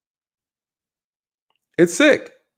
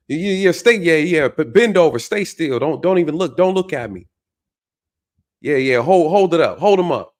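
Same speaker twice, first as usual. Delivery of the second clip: mock prison talk; 3 semitones higher than usual. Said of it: "That's how they talk".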